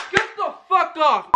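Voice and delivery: high, startled yelp at a bug; screaming at a spider. Real, not acted. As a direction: shoo the spider in a panic. Spider on his camera.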